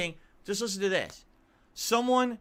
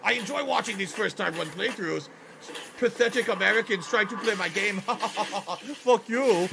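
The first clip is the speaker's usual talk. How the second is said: mock Japanese accent; 2 semitones higher than usual. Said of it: "that's a Japanese accent".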